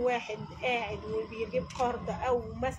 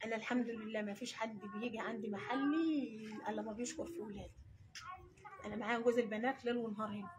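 choking up, softer voice; real tearful; 6 dB quieter than usual. Real, not acted. Mother thanking God for her trade, real quiet tearfulness. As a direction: hold back tears while talking softly. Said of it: "ما تعيطيش".

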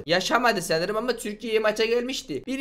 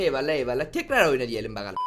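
ordinary delivery

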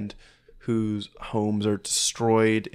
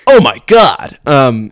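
laughing; 4 semitones higher, 16 dB louder, slower than usual. Real, not acted. Laughing at own voice.

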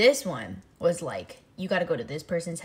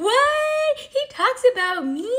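very high, squeaky disbelief; thrilled surprise; 7 dB louder, slower than usual. Retold or imitated. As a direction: gasp it out, flattered and shocked. Hearing Martin talks about her.

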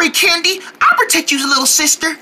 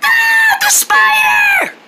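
frightened shout; 13 semitones higher, much slower than usual. Acted. Spider returns, child screams.

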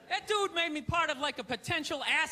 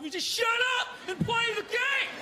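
furious redneck yell; 10 semitones higher than usual. Retold or imitated. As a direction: bellow it like a furious sports fan. Angry racist yelling at TV.

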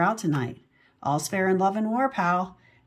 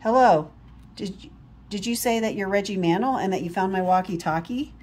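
put-on girl voice. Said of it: "Do you think I sound like a girl?".

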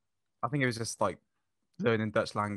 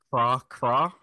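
imitated frog croak, punched out; Italian frog noise; 5 dB louder than usual. Shown as a demonstration. Guest shows how Italian frogs sound, imitated croak. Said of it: "in Italian, for frogs".

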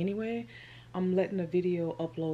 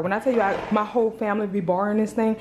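breathless after scrubbing the carpet; panting between words; out of breath; 3 semitones higher, 3 dB louder, faster than usual. Real, not acted. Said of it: "I'm out of breath from cleaning this carpet".

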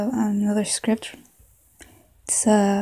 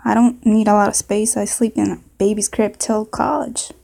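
put-on southern accent. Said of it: "maybe a southern accent".

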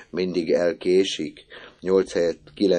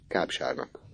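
softer, hushed answer; quiet repeat; 3 semitones lower, 7 dB quieter than usual. A narrator's reading. Misi answering Orci, hushed. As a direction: repeat it under breath. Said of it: "súgta neki Misi".

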